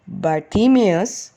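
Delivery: slow, gentle calling of his name; kind address. Acted. Jesus calls the blind man gently by name. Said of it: "said Jesus kindly".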